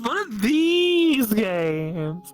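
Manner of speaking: high, slow, wailing laugh-cry of disbelief; drawn-out shriek of laughing dismay; laughing shock. Real, not acted. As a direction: howl it out, laughing in horror. Shocked by the game's turn.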